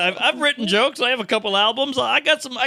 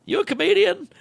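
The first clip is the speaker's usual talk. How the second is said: cop voice; 13 semitones higher than usual. Retold or imitated. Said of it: "And he goes".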